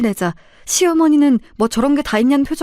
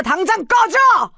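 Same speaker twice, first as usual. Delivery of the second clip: furious shout; 8 semitones higher, slower than usual. Acted. Father ordering the in-laws out, furious shout. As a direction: throw them out with one bellow.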